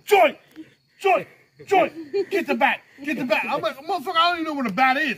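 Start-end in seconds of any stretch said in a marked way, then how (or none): 0.1-3.4 high, loud repeated holler; hammed-up shouts for backup; imitated urgent calling. Banging on the counter the whole time. 3.8-5.2 high, fast indignant retort; worked-up mock protest; retold exasperation. Acted exasperated retort to boss.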